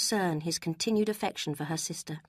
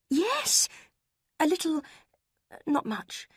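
very high, quick flustered blurt; flustered admission; 10 semitones higher, slower than usual. A narrator's reading. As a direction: caught out and backing down. Marianne flustered by Eleanor's question.

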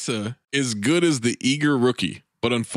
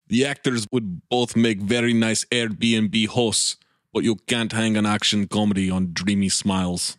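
put-on Scottish accent; 3 semitones lower than usual. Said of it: "Why is he Scottish all of a sudden?".

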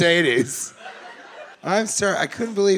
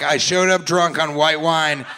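lightly voiced tipsy woman; 2 semitones higher, 7 dB louder, slower than usual. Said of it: "she just has this vibe of".

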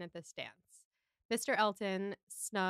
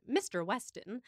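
a light mock transatlantic accent; Mrs Elton's accent. Co-host repeating Mrs Elton's odd greeting, lightly imitated transatlantic accent. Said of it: "this is a comment on her accent".

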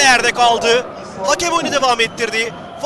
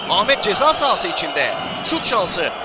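ordinary talk, nothing marked

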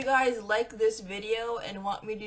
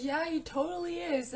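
teasing friends; 7 semitones higher than usual. Retold or imitated.

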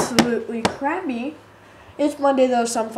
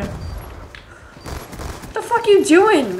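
very slow, higher, stretched incredulous question; drawn-out disbelief; 8 semitones higher, 4 dB louder, much slower than usual. Real, not acted. Gamer baffled by teammate, drawn-out disbelief. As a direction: drag it out in disbelief.

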